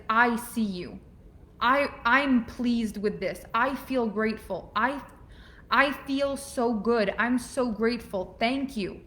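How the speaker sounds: slow, heartfelt thanks; mean every word of thanks; grateful acknowledgement. Shown as a demonstration. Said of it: "So acknowledgement is".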